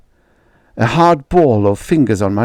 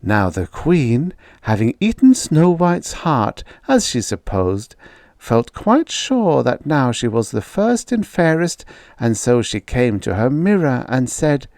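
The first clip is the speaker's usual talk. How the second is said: soothing storytelling voice; 3 semitones higher than usual. A narrator's reading. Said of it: "soothing, smoothing, storytelling voice".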